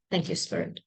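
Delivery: a breathy whisper to the spirits; whispered thanks. Real, not acted. Reader thanks Spirit before drawing cards, whispering. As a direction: thank them under your breath.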